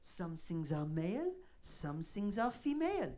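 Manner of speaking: snooty waiter. Retold or imitated. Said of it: "And he's like".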